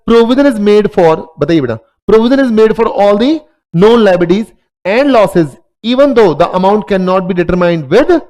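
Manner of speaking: spelling out each word slowly for notes; slow dictation. Acted. Teacher dictating a definition to students, very slow and deliberate. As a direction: dictate it so students can write.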